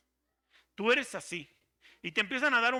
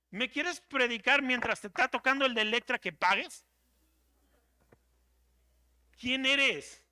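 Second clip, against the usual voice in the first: higher, accusing, hammering each question; a brother throwing the raw truth at Moses; harsh confrontation; 4 semitones higher than usual. Acted. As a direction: call him out to his face.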